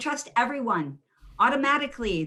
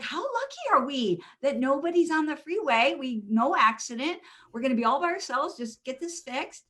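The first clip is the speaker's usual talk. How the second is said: cheery optimism; 5 semitones higher than usual. Retold or imitated. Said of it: "And I was like".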